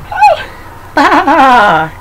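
high lamb bleat; bleating sheep voice. Acted. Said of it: "said the little lamb".

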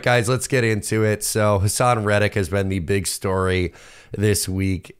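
ordinary delivery

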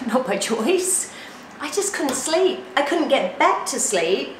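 usual speaking voice

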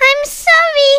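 high, small, sheepish apology; a hint of embarrassment; mild embarrassment. Suki apologizing to Kakamustik, sheepish. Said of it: "Suki says, extremely embarrassed".

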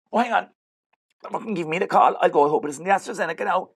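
high-pitched, animated breaking off; mock excitement. Fake cop called for the jab, high excited voice. Takes vaccination call, hurries off.

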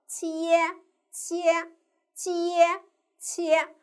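切 first split as qi-ye, then blended, on a high level tone; syllable blending demo. Shown as a demonstration. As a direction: alternate split qi-ye with whole 切. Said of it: "我们可以怎么拼呢".

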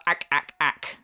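spaced-out "ack, ack, ack" laugh; mock laugh on repeated "ack"; imitated laugh. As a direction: mimic a staccato cackle in separate beats. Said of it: "your laugh is more of a".

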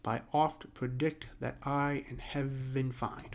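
slow, measured iambic verse; iambic scansion reading. Shown as a demonstration. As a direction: read the line slowly to show its iambs. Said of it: "Again, it's Imber".

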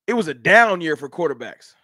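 mocking the critics. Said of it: "That stupidity?".

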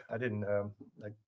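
choked up, recovering from a cough; strained voice after swallowing wrong; coughing up water. Real, not acted. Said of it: "water went down the wrong way".

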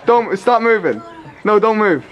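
commanding shout. Real, not acted. Director ordering actor to freeze.

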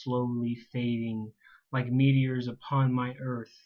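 measured, deliberate poetry reading; poem recitation. Acted. Poet reading own poem to listeners, poem recitation. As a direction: read it out line by line with pauses.

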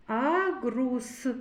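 "Агрус" with the closing с held; final sound picked out. Shown as a demonstration. Teacher showing children the last sound, final с drawn out in "Агрус". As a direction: let the s linger at the end of "Агрус". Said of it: "С твердий приголосний".

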